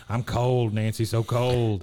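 slow, drawn-out whine of being cold; mock shivering Dale. Dale tells his wife, lightly whined cold complaint. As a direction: fake a shiver on the words. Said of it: "He starts shivering".

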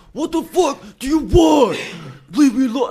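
mock angry yell. Imitating drunk Casey yelling on the phone, mock shout. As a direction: bark it like a drunk annoyed guy.

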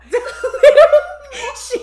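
big burst of high laughter; a loud, helpless laugh at the memory. Real, not acted. Cracking up retelling the story.

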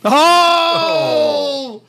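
loud mock boo; booing shout. Real, not acted. Crowd booing a pun.

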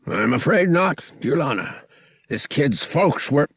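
wheezing merriment. A narrator's reading. Drunk captain gossiping over ale, wheezing and merry. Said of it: "wheezing with merriment".

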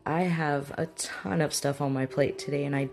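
pleasantly surprised greeting settling into even, polite refusal; assertive. Acted. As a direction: kind but firm host. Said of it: "The assertive person".

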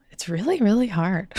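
breathy whispered aside; whispering. Real, not acted. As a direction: drop to a whisper, half joking. Exhausted aside about long hours.

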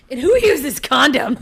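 slow, laughing question. Real, not acted. Laughing at the story.

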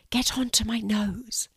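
conspiratorial stage whisper. A narrator's reading. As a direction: whisper it like a secret plan. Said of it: "whispered Blue".

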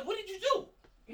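loud, slow and laughing; incredulous loud question. Retold or imitated. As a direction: demand it, half laughing. Retelling a confrontation with a friend.

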